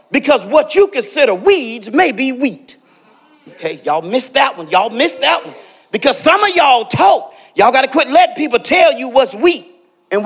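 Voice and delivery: call-and-response sermon push; punchy pulpit delivery; preaching. Acted. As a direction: build up and press the congregation. Preaching to the congregation.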